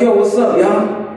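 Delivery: lightly put-on New York accent; a hint of New York street talk. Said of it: "put on a fake New York accent".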